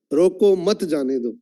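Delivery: group रोको with मत, drop on जाने दो; break after मत. Shown as a demonstration. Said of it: "सिर्फ टोन चेंज करके बोलता हूं". ("रोको मत" ऊँचा, "जाने दो" नीचे)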